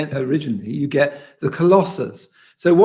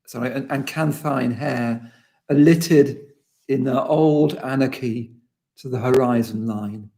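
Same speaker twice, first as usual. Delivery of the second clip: measured, unhurried reading of a poem; slower than usual. Acted. Lecturer reads the poem to the class, slow and measured. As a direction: let each image land slowly, a poet reading.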